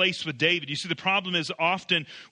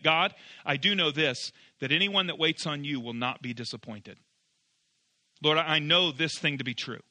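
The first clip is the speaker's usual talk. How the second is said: calm declaration; 4 semitones lower than usual. Shown as a demonstration. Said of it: "He's actually saying".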